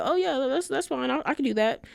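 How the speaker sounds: high, airy mock assurance; breezy confidence. Mimicking her dismissing warnings about needing a job, breezy confidence. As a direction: imitate someone brushing it off as easy. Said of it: "acting like it was easy peasy lemon squeezy".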